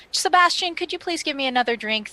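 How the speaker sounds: calling out to the bartender. Acted. Calling the bartender across the bar.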